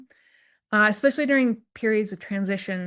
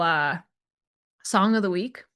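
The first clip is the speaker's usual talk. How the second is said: ordinary talk, nothing marked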